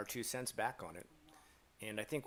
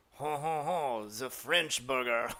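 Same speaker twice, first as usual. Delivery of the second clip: slow, drawn-out grand announcement; hammed-up announcer; 3 semitones higher, 6 dB louder, slower than usual. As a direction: announce it like a cheesy ad mascot. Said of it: "they do stuff where they're like".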